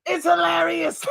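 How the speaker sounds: lightly voiced masked alter ego, playful; a mischievous mask character hijacking the channel; Mascot persona voice. Masked Mascot taking over the speaker's channel, mischievous. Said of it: that he is not the channel's host but Mascot.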